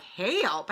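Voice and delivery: "Help" drawn into two syllables, incredulous echo; mocked extra syllables. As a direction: echo "Help" with its vowel split like a twang. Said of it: "How many syllables did that word have?".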